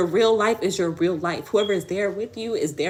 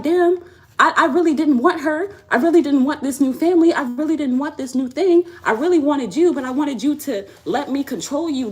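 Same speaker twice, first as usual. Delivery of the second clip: ex voiced; 5 semitones higher, 6 dB louder than usual. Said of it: "now he's like".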